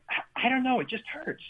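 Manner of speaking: high, helpless "I don't know"; high-pitched helpless shrug of a reply; helpless patient. Retold or imitated. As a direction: whine it like a confused patient. Patient answers doctor, helpless.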